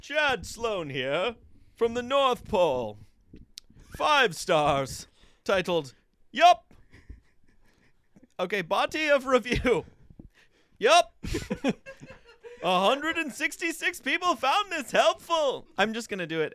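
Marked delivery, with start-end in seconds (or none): 0.0-11.1 jolly Santa Claus. Pretend. Reviewer reading a five-star review, as a jolly Santa. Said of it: "I'm gonna do Chad Sloan first".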